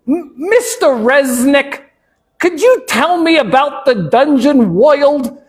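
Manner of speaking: put-on high, slow New York boy; Russell Jimmy. Boy asking the shopkeeper about dungeons, New York accent. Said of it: "he has a New York accent".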